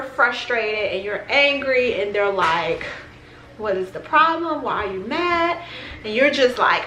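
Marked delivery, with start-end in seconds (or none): 3.6-5.6 1 puzzled partner. Retold or imitated. Partner asks why you're mad.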